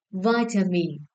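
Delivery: "Vitamin" with the opening syllable stressed; stress on first syllable. Shown as a demonstration. Teacher checking stress answers with class, first-syllable stress on "Vitamin". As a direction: lean on the "Vi" of "Vitamin". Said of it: "The first syllable".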